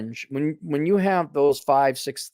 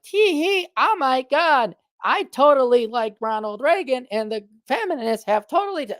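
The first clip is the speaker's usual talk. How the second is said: mock ditzy girl; 11 semitones higher than usual. Mocking a giggly fake girl.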